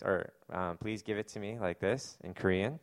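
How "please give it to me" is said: put-on softer, polite little-child ask; mock toddler asking nicely and gently; very polite request. Pastor imitating the baby politely asking for something, softer. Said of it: "says it very politely".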